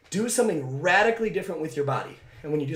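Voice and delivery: breathing hard after sprinting; winded, pushing words out between breaths. Real, not acted. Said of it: "I'm breathing hard now".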